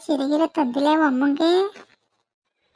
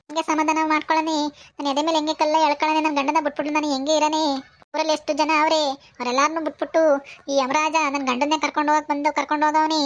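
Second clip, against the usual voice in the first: acted, inconsolable widow's plaint; weeping lament. Widow cursing Yamaraja for taking her husband, weeping lament. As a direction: grieve aloud, with a touch of tears. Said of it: "ಅಳ್ಬೇಡಿ ಸುಮ್ನಿರಿ ಅಜ್ಜಿ".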